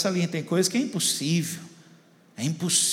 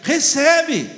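retold shout; 7 semitones higher, 5 dB louder, much slower than usual. Pastor urges the congregation to receive, shouting in imitation. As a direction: imitate a preacher's cry, high and loud. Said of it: "viu os gritos na igreja".

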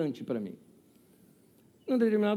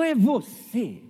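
slow, louder, amazed "É você?"; surprised gasp; 6 semitones higher, 5 dB louder, much slower than usual. Retold or imitated. Old lady recognizing the pastor, surprised and amazed. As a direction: recognize him with delight. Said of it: "Ela falou".

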